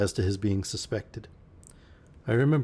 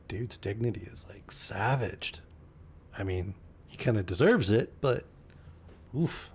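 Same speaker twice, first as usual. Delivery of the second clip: whisper. Real, not acted. Reader mocking the narrator's dignity, whispered. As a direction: drag out a voiceless aside.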